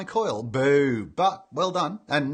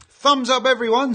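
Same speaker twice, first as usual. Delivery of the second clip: hearty read-out; 8 semitones higher, 8 dB louder than usual. Retold or imitated. Reading viewer message with gusto.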